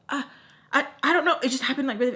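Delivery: high, halting imitation of stammering; flustered stammer. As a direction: struggle to get the words out. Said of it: "she can't even get the words out".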